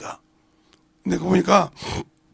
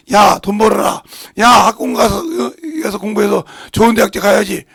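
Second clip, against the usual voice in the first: mock mother yelling at her kids, louder; nagging yell; 7 dB louder than usual. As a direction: shout the orders at the children. Mother nagging children to study.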